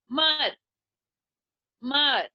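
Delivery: मर said apart, slow; syllable broken out. Shown as a demonstration. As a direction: say मर on its own slowly. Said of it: "इसको break करके सुनना आपने". (हैमर से मर अलग करके धीरे बोलना)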